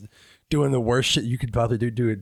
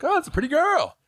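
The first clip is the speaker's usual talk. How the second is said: mock sweet voice; 13 semitones higher than usual. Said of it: "He's like".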